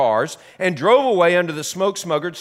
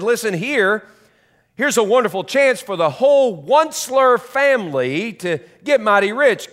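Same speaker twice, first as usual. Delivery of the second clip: excited; 3 semitones higher than usual. Acted. Onceler calls family to get rich.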